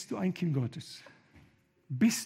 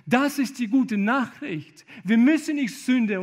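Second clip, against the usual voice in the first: slow, loud and higher; "Das ist die gute Nachricht" proclaimed slowly, loud, stress on "gute"; loud proclaimed line; 6 semitones higher, 9 dB louder than usual. Acted. Preacher proclaiming the gospel, slow and loud.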